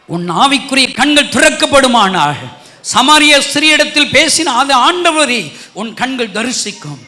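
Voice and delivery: loud, ringing declaration to the congregation; preaching shout. Real, not acted. Preacher to the congregation, a loud ringing proclamation. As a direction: proclaim it loud over the crowd.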